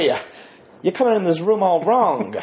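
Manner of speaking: halting actor impression with pauses; Christopher Walken. Host riffs as actor in the tub, halting impression. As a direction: improvise in a celebrity's broken phrasing. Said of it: "say it with a Christopher Walken accent".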